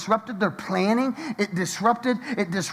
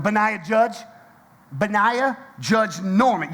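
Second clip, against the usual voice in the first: stern parent; 2 semitones higher, slower than usual. Retold or imitated. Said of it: "pull out the last name, you in trouble".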